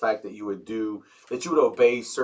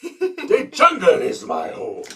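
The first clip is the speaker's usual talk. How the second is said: put-on very slow, much higher Hungarian accent, laughing; hammed-up Hungarian accent breaking into laughter; Bela Lugosi accent; 12 semitones higher, 5 dB louder, much slower than usual. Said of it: "the Bela accent was very thick and distinct".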